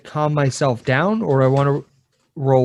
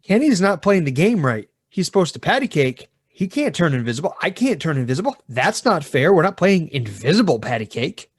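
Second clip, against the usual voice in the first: lightly acted indignant preschooler; complaining child; 2 semitones higher than usual. Preschooler telling teacher about invisible playmate, mildly indignant. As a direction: protest to the teacher, swooping in pitch.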